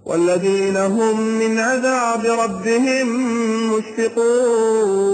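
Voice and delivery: slow chanted Quran recitation, each word drawn out; slow melodic tajweed chant. Acted. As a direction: chant the verse slowly like a reciter in prayer.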